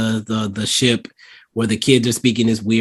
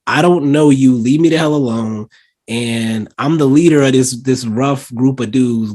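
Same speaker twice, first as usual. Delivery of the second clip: mildly annoyed, louder and higher at first; indignant retort; 3 semitones higher, 5 dB louder than usual. Retold or imitated. Gang leader telling an admirer to back off, indignant. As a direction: imitate an irritated brush-off, easing off slightly. Voicing annoyed character rebuffing someone.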